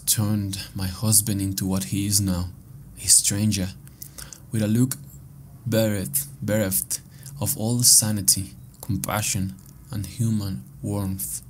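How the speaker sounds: measured, lightly dramatic reading; final note read aloud. Acted. Player reads a dead woman's last note, measured dramatic reading. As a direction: read it out deliberately, pausing between phrases.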